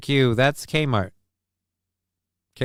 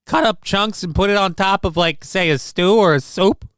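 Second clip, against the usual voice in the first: polite Midwesterner; 7 semitones higher than usual. Acted. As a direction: scold gently like a nice Midwestern mom worried about the cheese. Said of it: "as a, uh, Midwesterner".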